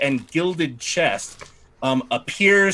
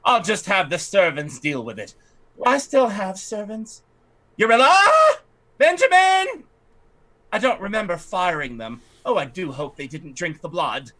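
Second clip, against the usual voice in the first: a slightly raised, haughty lady's voice; fussy noblewoman; 3 semitones higher than usual. Acted. Lightly raised voice as the lady fretting to the party about her estate. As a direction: play the put-upon aristocrat lamenting her estate. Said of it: "she says".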